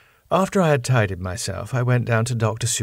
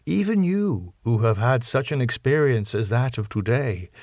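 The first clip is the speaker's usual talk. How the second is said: grave professor; 2 semitones higher than usual. Acted. Professor warning John about the papers, grave and measured. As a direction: weigh each word like a warning.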